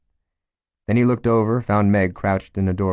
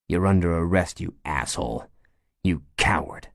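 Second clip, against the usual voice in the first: calm. Acted. Chief arresting the wounded gunman, calm and even. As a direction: say it evenly, no heat left. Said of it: "His voice was calm as June".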